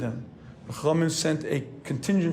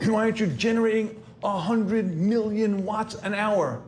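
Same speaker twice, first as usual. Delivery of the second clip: demanding inner voice; 3 semitones higher than usual. Retold or imitated. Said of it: "a voice inside that's saying".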